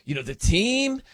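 rough, off-the-cuff imitation of a colleague; Patty. Shown as a demonstration. Host trying out his colleague's mannerisms, lightly mimicked voice. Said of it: "here's my Patty impression".

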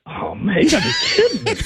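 very high, laughing shout; laughing disbelief. Retold or imitated. Player hearing the manager saw him, laughing shout. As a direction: crack up in disbelief. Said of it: "And I'm like".

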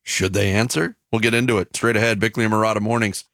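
upbeat sports radio announcer; radio promo read. Acted. Reads radio show promo.

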